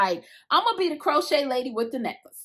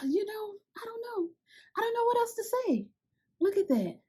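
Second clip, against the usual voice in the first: soft, breathy whisper on the edge of crying; real teary, hushed awe; overwhelmed, near tears; 7 semitones higher, 8 dB quieter than usual. Real, not acted. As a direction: choke up, too moved to speak. Overwhelmed by beautiful hook.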